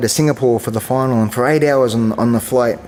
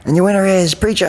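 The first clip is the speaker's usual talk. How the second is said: mock ring announcer; 8 semitones higher than usual.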